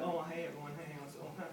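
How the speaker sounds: a bashful performer who can't get started; lightly imitated nervous newcomer; shy comic. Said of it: "Some people are very shy".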